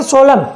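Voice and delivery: सोलम ending on a plain m, n silent; teacher modelling सोलम, falling at the end; silent-n pronunciation. Shown as a demonstration. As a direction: say सोलम with no n sound after the m. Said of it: "क्या बोलते हैं इसे".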